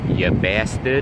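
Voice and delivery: "bastard" in a put-on Boston-like accent; maybe-Bostonian accent with a rising end; put-on regional accent. Man trying out an accent on a friend's name, put-on regional accent. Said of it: "accent that was".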